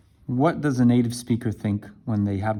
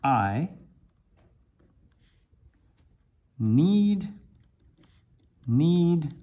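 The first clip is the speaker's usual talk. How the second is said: hesitant learner translating from Chinese; halting word-for-word English; 5 semitones higher, much slower than usual. Shown as a demonstration. Teacher mimics a learner translating word by word, haltingly. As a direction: grope for each word like a confused learner. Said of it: "you would say".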